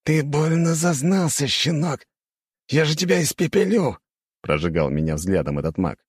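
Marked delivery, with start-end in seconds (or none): 0.0-4.0 high-pitched, outraged threatening; angry threat. A narrator's reading. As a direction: threaten like an affronted hothead, voice raised high. Enraged mage threatens narrator's character.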